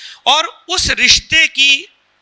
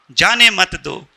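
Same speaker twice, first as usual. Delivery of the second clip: जाने मत दो as its own lower phrase; separate phrase after comma; 4 semitones lower, slower than usual. Shown as a demonstration. Speaker showing the other meaning, जाने मत दो set apart. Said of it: "comma".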